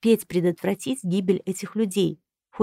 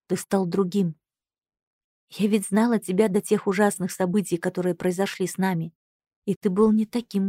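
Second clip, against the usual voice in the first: despairing. Acted. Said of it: "произнесла я с отчаянием в голосе".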